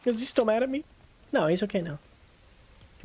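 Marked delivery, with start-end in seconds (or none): 0.0-0.8 high nervous small voice; timid question. Real, not acted. Gamer checking if the boss calmed down, nervous high voice. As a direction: ask it meekly.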